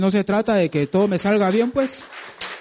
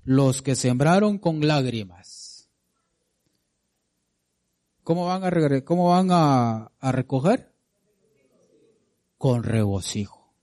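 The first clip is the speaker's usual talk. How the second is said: slow scripture reading; 2 semitones lower than usual. Acted. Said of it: "Salmo ciento veintiséis".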